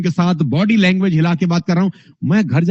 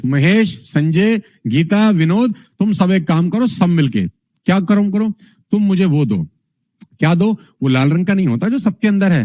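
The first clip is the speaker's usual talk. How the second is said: limp, casual speech. Shown as a demonstration. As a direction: deliver the rallying call like idle chatter. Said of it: "अब नेताजी कैसे speak कर रहे हैं". (ढीला, बेजान, बेपरवाह लहजा)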